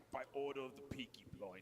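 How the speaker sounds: Peaky Blinders style Brummie; Birmingham accent. Shown as a demonstration. Guest showing the host a Birmingham accent. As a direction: quote it in a Birmingham gangster accent. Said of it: "I can do that one".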